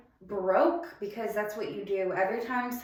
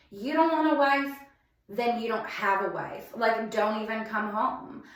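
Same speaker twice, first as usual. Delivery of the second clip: 1 retold screaming; 4 dB louder than usual. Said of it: "And I was just screaming at him".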